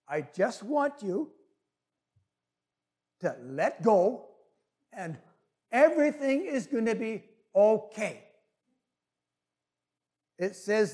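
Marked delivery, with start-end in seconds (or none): 0.1-8.3 lightly voiced unhurried heavenly voice; calm voice from above. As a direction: reassure with long pauses between phrases. Voice from above reassures tourist.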